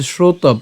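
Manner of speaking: "শ্রোতব" closed on b, no final vowel; pronunciation demo. Shown as a demonstration. Teacher showing where the first part stops, "শ্রোতব" ending on b. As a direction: cut "শ্রোতব" off on the b. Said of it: "ব হসন্ত পর্যন্ত উচ্চারণ করলাম".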